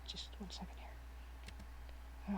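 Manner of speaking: slow whispered aside, off mic. Real, not acted. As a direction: breathe it quietly, slowly, to yourself. Streamer mutters aside, off mic.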